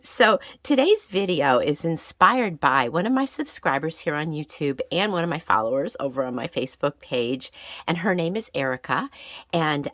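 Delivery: gravelly from being sick; a little hoarse and raspy after illness. Real, not acted. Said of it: "my voice sounds a little gravelly or raspy".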